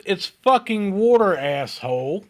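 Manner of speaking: sassy retort. Retold or imitated. Waitress teasing Chris, high and sassy.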